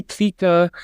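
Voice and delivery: "Kriege" with an article, a German r and a final -e. Shown as a demonstration. A linguist showing a variant pronunciation of "Kriege". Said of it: "integrate it more into German syllable structure".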